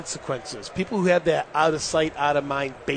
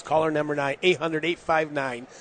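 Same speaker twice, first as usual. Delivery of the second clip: radio contest promo. Acted. Reads a radio ticket giveaway.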